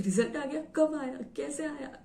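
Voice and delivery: high startled questions; surprised mom. Retold or imitated. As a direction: mom caught off guard, voice jumping up.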